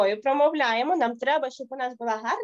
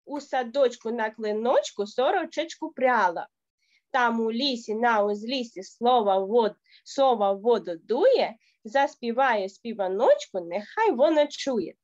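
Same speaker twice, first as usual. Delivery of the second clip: rhythmic recitation. Shown as a demonstration. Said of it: "Отак от і будемо промовляти в такому темпі".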